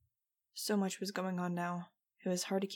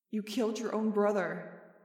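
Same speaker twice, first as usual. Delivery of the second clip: echoing memory; 2 semitones higher, 4 dB louder than usual. A narrator's reading. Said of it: "Jeb's horrifying words echoed in my head".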